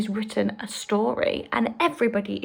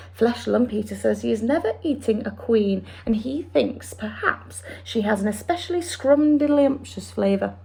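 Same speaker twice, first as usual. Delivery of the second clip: quick, lightly voiced friendly giant; BFG voice. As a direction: explain it like the big friendly giant. BFG speech.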